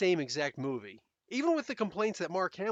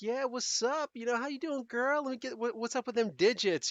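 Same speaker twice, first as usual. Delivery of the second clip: higher smooth pickup-line voice; pickup line guy; 7 semitones higher than usual. Retold or imitated. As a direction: play a cheesy guy hitting on a girl. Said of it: "our stupid lines like that".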